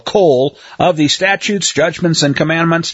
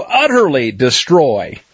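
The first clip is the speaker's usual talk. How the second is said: UTTERLY stressed, DESTROY drawn out slowly; slow, weighty stress on utterly destroy; emphatic; 3 semitones lower, slower than usual. Shown as a demonstration. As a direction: give utterly destroy deliberate force. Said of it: "the difference is in emphasis".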